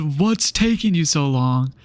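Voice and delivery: slow, drawn-out mocking quote; mock impatience. Student mimicking examiner at stop sign, mock impatient. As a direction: stretch every word in exaggerated impatience. Indignant repeat of examiner's question.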